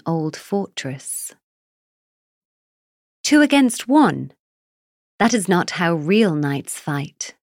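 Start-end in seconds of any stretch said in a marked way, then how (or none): 3.2-7.4 angry. Acted. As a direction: burst out in outrage. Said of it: "Acorn said angrily".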